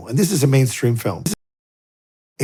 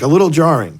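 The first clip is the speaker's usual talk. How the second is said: 'A little jarring' thrown back louder and higher, disbelieving; incredulous echo; 5 semitones higher, 6 dB louder than usual. Retold or imitated. Newcomer scoffing back at the priest's understatement, incredulous. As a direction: repeat 'A little jarring' in mock outrage, pushing hard on 'little'. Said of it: "I'm like".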